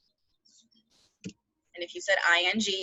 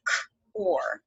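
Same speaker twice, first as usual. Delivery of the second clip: whispered sounding out; 5 semitones lower than usual. Shown as a demonstration. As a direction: whisper the parts. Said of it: "we hear that or sound".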